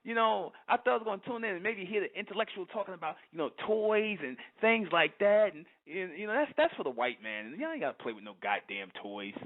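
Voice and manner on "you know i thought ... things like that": mock listener quote. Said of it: "a lot of people say".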